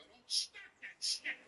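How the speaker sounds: mock stern wife; warning wife. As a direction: draw it out as a wife's warning. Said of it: "She can just look at him and go".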